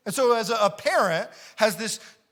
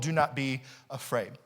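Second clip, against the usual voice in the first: softer, lower, calm; gentle reassurance; 5 semitones lower, 4 dB quieter than usual. Shown as a demonstration. Preacher softly reassuring the fearful disciples. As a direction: say it gently to soothe. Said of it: "then they're told".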